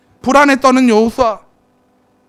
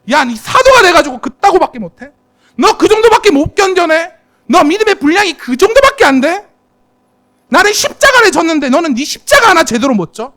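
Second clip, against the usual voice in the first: higher, pressing rebuke; mock scolding; 5 semitones higher, 4 dB louder than usual. Imagined God rebukes a weary Paul, mock scolding. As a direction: scold like a stern master, half-acted.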